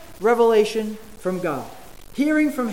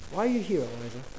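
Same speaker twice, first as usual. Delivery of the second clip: soft and hushed, voice falling away on Elijah; the question, dropped almost to a whisper; gentle whisper; 6 semitones lower, 9 dB quieter, faster than usual. Shown as a demonstration. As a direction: ask it the way God's gentle whisper would. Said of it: "this gentle whisper".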